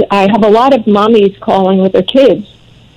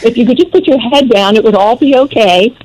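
lightly voiced worried mother; a hint of mock motherly fussing; fussing mommy. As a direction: imitate a mother fretting over her boy. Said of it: "gonna be a mommy by the side going".

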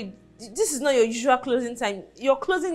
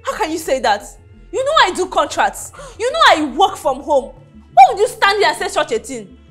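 hurt anger; 4 semitones higher, 4 dB louder than usual. Acted. Wife argues back.

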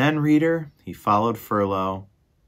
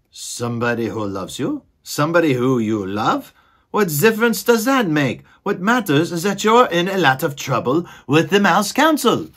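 higher, louder exasperated squeaky mouse voice; exasperated mouse brother; 7 semitones higher, 5 dB louder than usual. Acted. Furlow scolding his dreamy brother, exasperated and higher. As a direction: huff it out as the fed-up brother.

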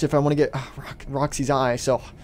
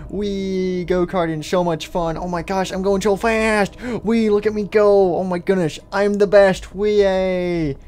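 raised, drawn-out cheers; thrilled; 3 semitones higher, slower than usual. Acted. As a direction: whoop and boast while racing. Child races the go-kart.

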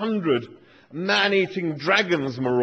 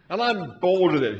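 put-on Australian accent. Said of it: "my Australian accent isn't very good".

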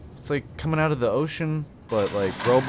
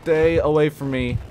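frightened plea; 5 semitones higher, 4 dB louder, slower than usual. Real, not acted. Scared of creature.

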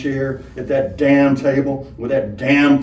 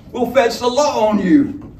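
weak courage; 9 semitones higher, 4 dB louder than usual. Acted. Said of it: "showing a weak flame of courage".

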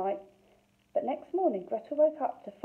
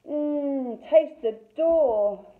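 put-on child voice; 5 semitones higher, 5 dB louder, much slower than usual. Child tasting gingerbread.

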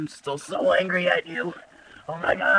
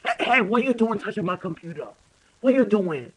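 louder, pitched-up telling off; mock angry scolding; 4 semitones higher, 4 dB louder than usual. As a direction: catch someone touching your computer. Pretend-scolding someone touching computer.

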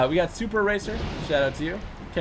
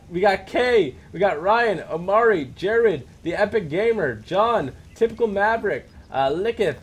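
names called out one by one, pitched up; higher-pitched roll call with a beat between names; shout-out roll call; 4 semitones higher, slower than usual. Real, not acted. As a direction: read off a list of fan names, each one lifted.

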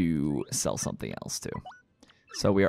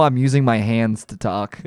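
ordinary talk

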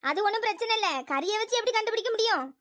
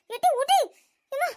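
laughing cry; 3 semitones higher than usual. Acted. Pinned under opponent, laughing pain.

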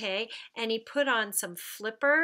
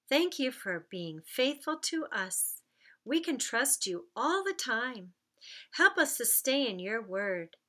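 put-on children's prayer; 3 semitones lower than usual. Teacher praying aloud with the children, gentle.

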